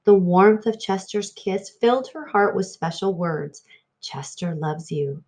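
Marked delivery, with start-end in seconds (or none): 4.0-5.2 softer, tender singsong. Acted. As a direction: let it sing softly in her heart. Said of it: "it sang".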